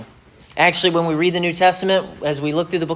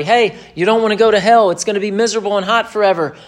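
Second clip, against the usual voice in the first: higher, louder imitation of an urgent warning; imagined street warning; 5 semitones higher, 3 dB louder, faster than usual. Imagined evangelist warning everybody about hell, mock urgent call. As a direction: mimic someone warning the whole crowd. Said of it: "They didn't go around telling everybody".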